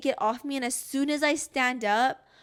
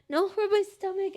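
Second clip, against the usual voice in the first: impatient demand; 10 semitones higher, 4 dB louder than usual. Retold or imitated. Correcting partner during contractions.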